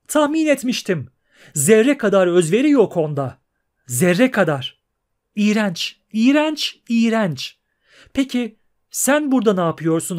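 high, loud, scornful singsong; shrill trilling mermaid. Acted. Mermaid scorning the absent prince and teasing the pair, high and shrill. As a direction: trill her disgust like a spoiled siren. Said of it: "tiz perdeden şakıyarak".

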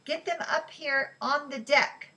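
narrator's moderate yell; yelled order. A narrator's reading. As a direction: call it across a noisy ship. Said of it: "he yelled to Ellie".

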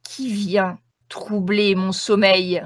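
slow, loud ghostly voice; sepulchral voice. Acted. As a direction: boom it out slowly like a waking ghost. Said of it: "d'une voix sépulcrale".

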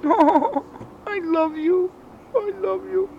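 very high, loud squeaky pet cooing. Real, not acted. Owner gushing to her cat in squeaky baby talk. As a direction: coo up high like talking to a kitten.

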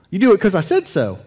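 bossy parent voice; stern parent. Retold or imitated. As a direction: lay down the law like a parent.

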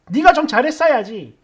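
quoted mother's mild scolding, falling at the end; matter-of-fact telling-off from a mother; mild maternal reproach. Retold or imitated. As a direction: chide lightly and let the end drop. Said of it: "이렇게 말 한마디 한 게 전부인데".

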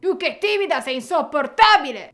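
angry outburst. Acted. Anger snaps at Shyness.

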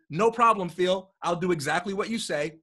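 fake compliance. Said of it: "lie through his teeth".

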